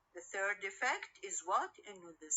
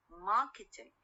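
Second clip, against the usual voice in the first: "marketing" stressed on its first syllable, MAR; stress on stem. Shown as a demonstration. Teacher repeats the example for students, MAR stressed in "marketing". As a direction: make MAR the strong beat in "marketing". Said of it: "On the, the stem and not".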